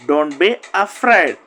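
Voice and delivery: slow, spaced-out words; careful slow model phrase; slow drill. Shown as a demonstration. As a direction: stretch Don't be afraid slowly. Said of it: "drill: don't be afraid, repeated".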